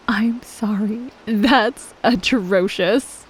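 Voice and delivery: slow whispered sorry; whispered apology. Acted. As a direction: whisper it while holding back a laugh. Stifling laughter at bad name.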